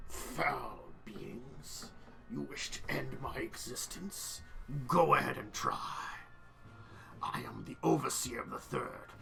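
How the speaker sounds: menacing Phyrexian overseer. Acted. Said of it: "He'll now switch. He's actually gonna say something in common".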